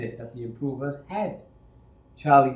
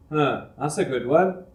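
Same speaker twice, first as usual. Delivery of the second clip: sarcastic; 4 dB louder than usual. Acted. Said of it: "the foreman said sarcastically".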